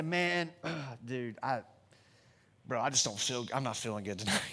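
low, croaky fake-sick voice; faking sick. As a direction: put on a sickly voice to bail. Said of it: "we call our friend up and we say".

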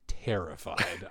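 slow, soft whisper; mock whisper of remembered fear. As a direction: breathe the word out as if still scared. Recalling fear in haunted maze.

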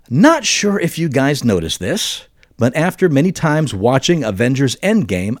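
measured, deliberate read-aloud voice; letter reading. Real, not acted. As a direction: read the email out with exaggerated lilt. Reads out a listener's email.

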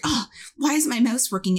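mock frustrated muttering over a glitch; a touch of fluster; imitated flustered. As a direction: lightly mimic a flustered coworker. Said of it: "he was so flustered".

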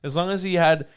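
1930s voice. Acted. Describing a musician's life to friends in a 1930s voice. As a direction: play it like a character from an old newsreel. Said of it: "that's a good nineteen thirties voice".

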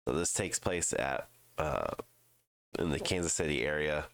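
blocked nose, stuffy voice; congested. Real, not acted. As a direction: talk through a congested nose. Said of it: "if I sound really congested".

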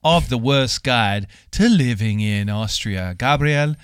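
slow, drawn-out showman intro; announcer voice. Acted. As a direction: announce him like a ring host. Hosts announce the co-host.

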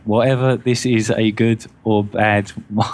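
stiff robot-like reading. Real, not acted. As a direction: read it like a robot. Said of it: "I feel like I'm a robot".

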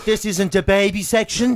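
slow, put-on sassy shop assistant. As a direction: talk down to him like a sassy clerk. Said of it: "the way she said it, she was so sassy".

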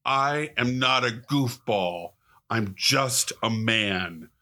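put-on slow, deliberate, indignant little-kid declaration; dead serious. Grandpa quoting his angry grandson on a fishing trip, dead serious. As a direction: imitate an offended child, slowly, word by word. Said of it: "he got all angry and looked at me with the most serious face".

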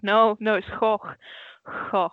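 "Gogh" with Dutch throaty sounds; Dutch pronunciation. Retold or imitated. Dutch speaker correcting a meme, Dutch "Gogh". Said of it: "You're mispronouncing it".

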